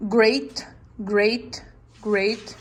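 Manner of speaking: "great" repeated as one beat; syllable demo. Shown as a demonstration. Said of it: "one time".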